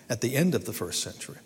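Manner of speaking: winded, short of breath; talking while out of breath. Real, not acted. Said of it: "Let me catch my breath".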